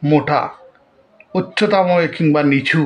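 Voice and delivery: measured recital with long pauses between lines; poem recitation. Acted. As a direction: recite verse line by line, deliberately. (ধীরে, থেমে থেমে কবিতা আবৃত্তি)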